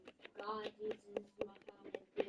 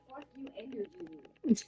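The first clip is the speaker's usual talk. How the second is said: loud, slower jab; mock-defiant shout; retold defiant outburst; 3 semitones higher, 11 dB louder, slower than usual. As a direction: fling it out defiantly. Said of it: "That's why I said".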